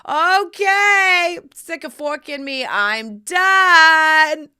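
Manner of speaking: laughing and overwhelmed after lovemaking, high and loud; overwhelmed whoop. Retold or imitated. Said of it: "And I was like".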